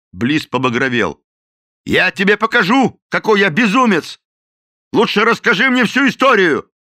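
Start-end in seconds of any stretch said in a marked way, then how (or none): 1.9-6.7 loud, high furious yelling; the captain threatens the cook who insulted him. A narrator's reading. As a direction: roar the threat.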